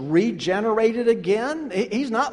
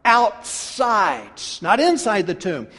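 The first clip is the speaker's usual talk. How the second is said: firm order in the preacher's own voice; emphatic, insistent telling-off; stern command. Acted. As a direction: order someone out with no argument allowed. Preacher voices Jesus ordering Lazarus out.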